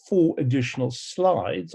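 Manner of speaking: slides leaned on to set it apart; stress on slides. Real, not acted. Lecturer to pathologists, stressing slides over blocks. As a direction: give the word slides a firm push. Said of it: "I emphasize the word slides".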